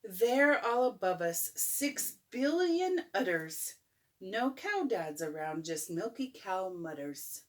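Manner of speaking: gentle storybook reading; bedtime story. A narrator's reading. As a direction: read it like a bedtime book. Reads picture book aloud.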